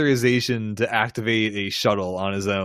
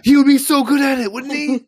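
a gasp, then much higher and louder with glee; thrilled by the idea, voice jumping up; excited high gasp of delight; 13 semitones higher, 5 dB louder than usual. Real, not acted.

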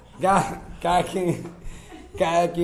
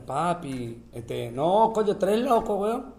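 caraqueño street talk rising in pitch; caraqueño accent; 4 semitones higher, slower than usual. Shown as a demonstration. Guest showing how Caracas talks, rising caraqueño accent. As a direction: switch into a caraqueño accent, climbing higher. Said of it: "O te vas a Caracas".

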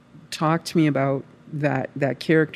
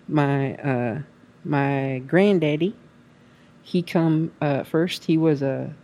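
put-on Kentucky woman accent. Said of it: "I don't even know if I can slip into that character here".

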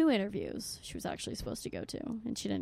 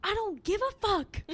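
high, loud mock defiance; aggressive friend, imitated; 11 semitones higher, 5 dB louder than usual. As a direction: throw it back defiantly, pitched way up. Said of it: "he's like, "You're really aggressive".

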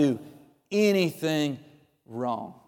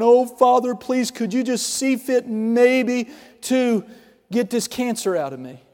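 pleading beggar; 2 semitones higher than usual. Retold or imitated. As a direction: plead timidly, drawing out the request. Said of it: "as a beggar and a pauper".

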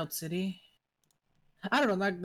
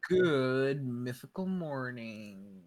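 show host greeting; 4 semitones lower, much slower than usual. Pretend. Mock show greeting, very slow.

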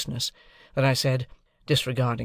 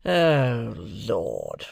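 scornful groan; 2 semitones lower than usual. Acted. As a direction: scoff in weary contempt. Drummle scoffs at Pip.

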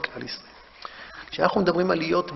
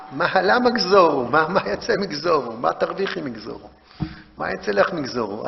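bitter indignation. Retold or imitated. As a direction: let the grievance drag out at first. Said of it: "ההתמרמרות שלה". (התמרמרות מרה ואיטית)

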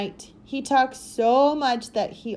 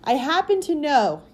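low, vibrating secret tone; shaky vibrating voice; 5 semitones higher, 5 dB louder than usual. A narrator's reading. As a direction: speak low with a tremble. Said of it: "Then he spoke in a low, vibrating voice".

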